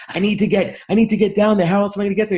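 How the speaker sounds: high-pitched arguing lady, imitated; acted frustrated whine; mock indignant insistence. Lady argues at blocked escalator.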